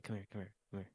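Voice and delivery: very soft whisper close in; right in your ear. Acted. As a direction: breathe it softly into the ear. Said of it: "I'm whispering in your ear".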